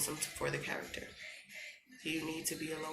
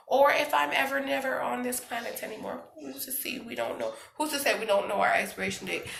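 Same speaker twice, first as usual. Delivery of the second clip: impassioned; 7 semitones higher, 7 dB louder than usual. Real, not acted. Passionate reflection on mortality.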